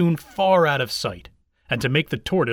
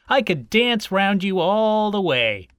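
higher-pitched cocky hare voice; boastful hare; 5 semitones higher, 3 dB louder than usual. A narrator's reading. Hare bragging to the tortoise, cocky.

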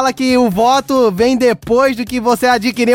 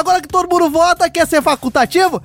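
Bolsonaro with lisp; 3 semitones higher than usual. Acted. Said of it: "Trinta segundos de língua presa".

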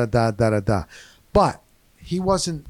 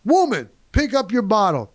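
high-pitched imitation of a loudmouthed redneck husband; mock redneck bellow, pitched way up; loud redneck; 10 semitones higher than usual. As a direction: holler at your wife like a loud redneck. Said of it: "That's exactly how he talked".

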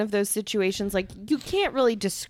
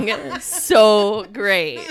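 words through laughter; laughing; 6 dB louder, much slower than usual. Real, not acted. Laughing at Sarah's face.

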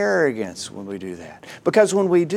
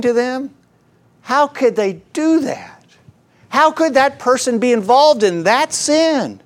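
climbing higher into shocked, judgmental tutting; self-righteous Christian; 6 semitones higher than usual. Retold or imitated. Church member in the corner judging sinners, shocked and rising. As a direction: cluck like a pious gossip getting more scandalized. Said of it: "some Christian will stand off in the corner and say".

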